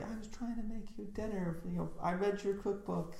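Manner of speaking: high, breathy Italian actress voice; Italian accent. Retold or imitated. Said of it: "an Italian actress".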